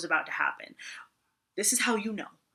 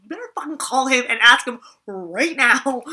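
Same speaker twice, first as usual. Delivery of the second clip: louder, bossy retold order; mock demand; 3 semitones higher, 9 dB louder than usual. To Garrett on the ride home, a bossy mock demand. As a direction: lay down the law, half joking. Demanding he call her dad.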